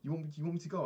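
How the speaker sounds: can't believe she's asking; incredulous. Retold or imitated. To his nan, a high, loud disbelieving protest. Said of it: "I was like".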